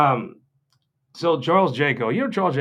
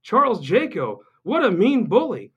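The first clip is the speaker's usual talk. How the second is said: whiny mock outrage; 7 semitones higher, 3 dB louder than usual. Mimicking Greg's online whining, high and loud. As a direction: parody a pearl-clutching friend. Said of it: "so Greg is like".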